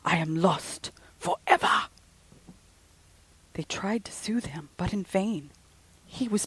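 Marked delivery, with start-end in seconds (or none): 0.1-1.9 frantic cry. Acted. Frenzied student cries out.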